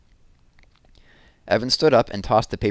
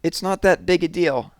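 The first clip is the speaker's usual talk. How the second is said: much higher, strained and tight; voice stretched tight; 10 semitones higher than usual. Acted. Jessie repeats to Scott it's no big deal, voice much higher and tight. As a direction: hold it together under strain. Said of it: "her voice stretched tight like a rubber band".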